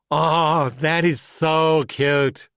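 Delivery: drawn-out, very slow patronizing "so cute"; condescending coo. Acted. Motel clerk Greg mocking Valkyrie, slow condescending coo. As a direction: talk down to her like a child. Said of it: "Valkyrie bristled".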